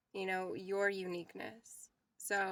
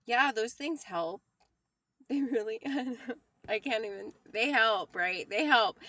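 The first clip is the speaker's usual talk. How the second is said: laughing; 5 dB louder than usual. Real, not acted. Laughing at her own point.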